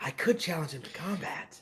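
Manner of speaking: loud stage whisper. Speaker retells what Kanan said, in Kanan's whisper-talk. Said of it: "he whisper talks".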